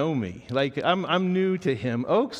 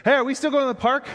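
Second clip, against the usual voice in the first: put-on high, fast little-boy voice, eager; imitating a preschooler asking about the park; kid's question; 11 semitones higher, 5 dB louder, faster than usual. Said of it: "his buddy goes".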